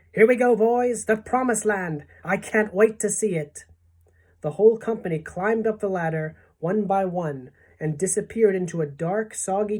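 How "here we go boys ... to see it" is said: high, excited cheering; excited shouts. A narrator's reading. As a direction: cheer as the group sets out. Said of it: "mounting excitement and shouts of".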